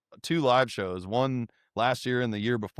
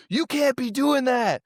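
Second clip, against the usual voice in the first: imitating serious scolding; 12 semitones higher, 3 dB louder than usual. Rapper scolds friends for the prank, high emphatic imitation. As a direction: scold firmly with the pitch well up. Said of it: "He was dead serious".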